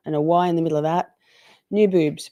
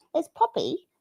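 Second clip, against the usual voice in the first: dog voice; 11 semitones higher, 5 dB quieter than usual. Real, not acted. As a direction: coo at the pet in a high voice. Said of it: "That's my dog voice".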